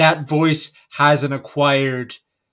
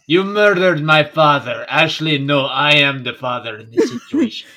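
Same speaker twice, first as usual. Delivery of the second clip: lightly put-on French accent; playful mock-French accusation, then correction. Co-host muddling his French Drow role, French accent. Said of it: "Same way with a French accent".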